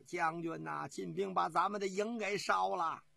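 lightly acted wailing report; tearful cry. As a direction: cry out to the general in mild distress. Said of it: "哭叫着". (带点哭腔地喊)

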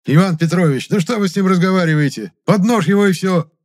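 high, loud, pushy insistence. A narrator's reading. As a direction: push the boss to just get on with it. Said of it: "убеждённо заявил толстяк".

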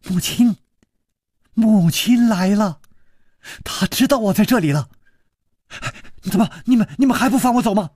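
put-on high, bright girl's delight; a girl thrilled her mother has come; girl overjoyed to hear her mother's voice. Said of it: "大喜".

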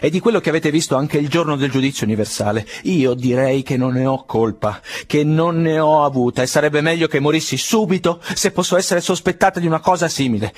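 building from forceful to a near-shriek of protest; sobbing outburst. A narrator's reading. Fenechka swears her innocence to Pavel Petrovich, rising sobbing cry. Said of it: "i singhiozzi le stringevano la gola".

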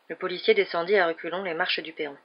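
ordinary delivery, nothing marked

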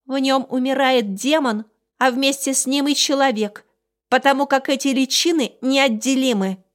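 high, loud little beast; squeaky creature with grave news; small creature voice. Acted. Small creature Nochen explains. (высокий голос зверька)

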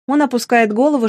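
ordinary delivery, nothing marked

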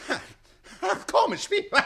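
high, loud sarcastic laughter; sarcastic laugh through the words; mocking laugh. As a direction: laugh it off scornfully. Count laughs at the coincidence.

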